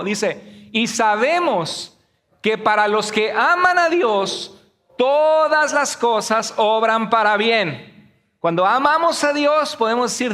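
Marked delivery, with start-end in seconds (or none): 0.7-8.1 slow, weighty reading of the verse; slow scripture reading. Shown as a demonstration. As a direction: read each word slowly and deliberately. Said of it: "Léalo conmigo".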